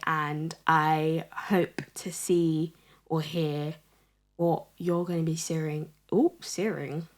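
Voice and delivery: talking with gum in mouth; words round a wad of gum; chewing gum. Real, not acted. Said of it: "I'm really struggling to speak".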